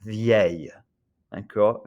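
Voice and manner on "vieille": "Vieille" ending in a Y sound, no L; demonstrating pronunciation. Shown as a demonstration. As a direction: model "Vieille" for learners with a Y glide at the end. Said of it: "It's pronounced like this".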